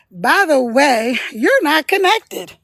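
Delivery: slow, drawn-out by-the-way announcement; mock casual notification. TikTok belatedly telling the host about the connection, mock casual. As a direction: play the app breaking news belatedly. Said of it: "And then TikTok's like".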